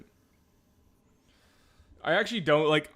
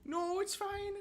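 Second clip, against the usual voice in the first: put-on Nova Scotian accent; 13 semitones higher than usual. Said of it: "This is my Nova Scotian bit".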